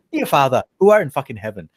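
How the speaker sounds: lightly attempted Irish priest accent; mock the prayer with a rough Irish lilt; bad Irish accent. Shown as a demonstration. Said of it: "I'm really bad at this".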